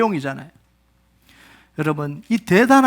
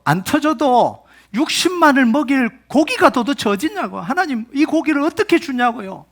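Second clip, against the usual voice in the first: high-pitched, fed-up complaint to God; acted indignant pleading; exasperated protest; 6 semitones higher than usual. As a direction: argue back in exasperation. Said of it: "이제는 터져버린 거예요".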